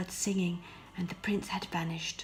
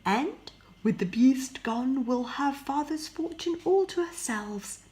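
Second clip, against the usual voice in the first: louder, higher greedy sister; scheming sister; 5 semitones higher, 6 dB louder than usual. Acted. Sophie scheming with Marie, gloating and louder. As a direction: gloat over the fortune.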